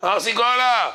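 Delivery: high, stretched mock commercial cry; hammed-up product plug; advertising slogan. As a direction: belt out ארסי קולה like an advert. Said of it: "עשה פרסומת".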